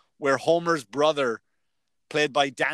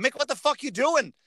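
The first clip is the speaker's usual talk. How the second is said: imitating the coach; 9 semitones higher than usual. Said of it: "my coach going".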